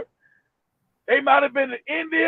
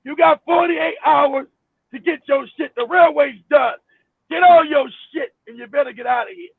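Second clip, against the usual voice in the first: mock dictator decree. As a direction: lay down the order like a dictator. Voicing Idi Amin's decree.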